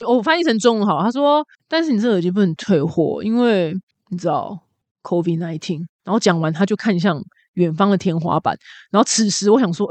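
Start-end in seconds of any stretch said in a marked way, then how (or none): 1.7-5.8 world-weary clerk. Retold or imitated. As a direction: mumble it like you're done with life. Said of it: "最厌世的店员".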